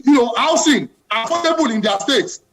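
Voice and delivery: real passion, insistent demand; impassioned. Real, not acted. Panelist demanding affordable housing as time runs out, impassioned. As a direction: keep pushing the point home. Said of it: "I can tell from the passion in your voice".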